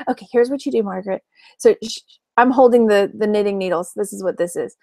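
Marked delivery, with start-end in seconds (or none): 0.1-1.2 softer, lightly voiced mom; a hint of an instructing mother; imitating mom. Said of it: "I'm being my mom now".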